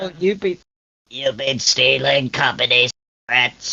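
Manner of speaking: acted robotic doll voice. Retelling a film scene, doing Megan's voice: imitating Megan's voice. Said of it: "I ain't gonna keep doing that voice".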